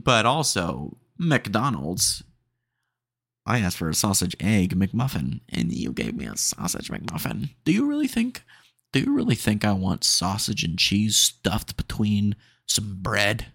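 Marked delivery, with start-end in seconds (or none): 5.5-13.5 talking through a burp; burping the words. Real, not acted. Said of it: "about the burp again".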